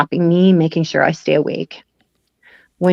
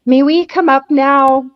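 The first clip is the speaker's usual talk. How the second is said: mock polite; 8 semitones higher, 4 dB louder, slower than usual. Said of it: "And I'm like".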